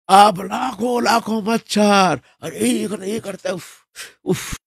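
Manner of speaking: high, slow exasperated cry fading into puffed-out sighs; a fed-up hermit swatting at a swarm; annoyed outburst. Acted. Hermit plagued by mosquitoes at his hut, exasperated high complaint. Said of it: "नाराज हो गया सनातन गोस्वामी".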